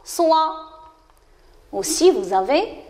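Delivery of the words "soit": "soit" said as one syllable, swa; syllable demo. Shown as a demonstration. Teacher confirms how S with wa sounds, "soit" as one clear swa. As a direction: blend S and wa into "soit". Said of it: "il se prononce".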